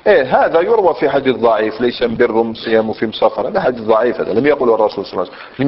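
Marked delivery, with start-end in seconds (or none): 1.8-3.5 Himyar article "am" in place of "al"; Himyar dialect. Shown as a demonstration. Teacher quoting a weak hadith, Himyar dialect. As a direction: quote it with Himyar am-birr, am-siyam, am-safar. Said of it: "لماذا ينطق بلغة حمير".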